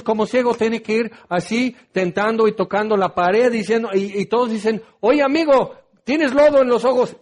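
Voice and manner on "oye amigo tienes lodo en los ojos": mock passer-by. Passers-by calling to blind man.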